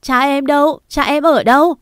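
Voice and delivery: high, loud frenzied demand; distraught girl demanding where her father is; frantic questioning. A narrator's reading. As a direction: grab him and demand an answer. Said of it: "tôi điên cuồng hỏi".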